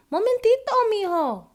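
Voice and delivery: high call from another room; grandma answering from afar; calling back. A narrator's reading. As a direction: call out from the kitchen. Grandmother calls from kitchen.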